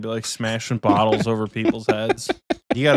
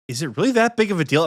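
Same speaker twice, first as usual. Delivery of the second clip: frat bro; 6 semitones higher, much faster than usual. Retold or imitated. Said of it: "he's like".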